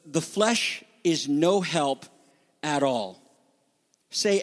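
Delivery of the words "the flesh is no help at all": slow, weighted "no help", a pause, then "at all"; emphatic negation. Shown as a demonstration. Preacher reading Jesus' words on the flesh, emphatic negation. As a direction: set "at all." apart with finality. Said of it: "This is emphatic".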